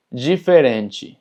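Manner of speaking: diferente slowly as "jiferenchi"; DI ji, TE chi. Shown as a demonstration. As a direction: open diferente on "ji", close it on "chi". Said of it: "entonces es chi". (diferente lento, dicho «jiferenchi»)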